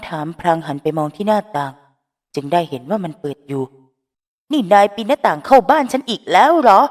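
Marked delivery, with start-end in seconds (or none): 4.5-6.8 high, loud scolding cry; outraged yell. Acted. Phrom scolds Finneas for climbing in the window, loud. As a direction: shout the accusation in disbelief. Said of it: "น้ำเสียงที่โวยวายของพร้อม".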